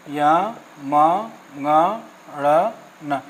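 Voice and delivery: य, म, ङ, ण, न said low and drawn out; nasal letters demonstrated. Shown as a demonstration. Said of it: "देखिए, य".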